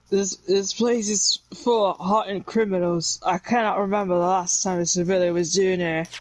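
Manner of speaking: lightly slurred Scottish governor voice; mock Scottish accent. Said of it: "It's kinda slurring, huh?".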